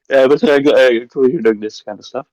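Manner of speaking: croaky, just woke up; Snackulair-free croaky voice, just out of bed; croaky morning voice. Real, not acted. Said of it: "bit croaky maybe".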